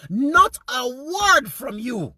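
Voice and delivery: high, drawn-out outrage; slow, high-pitched reproach; real indignant accusation. Real, not acted. Accusing the president of silence.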